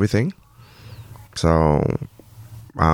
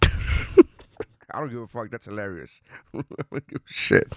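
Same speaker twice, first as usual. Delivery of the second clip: laughing; 6 dB quieter, slower than usual. Real, not acted. Laughing while quoting.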